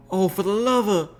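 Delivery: high exasperated country voice; exasperated mare. Acted. Applejack exasperated at Rarity's teasing, high exasperated voice. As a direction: throw up your hands, high.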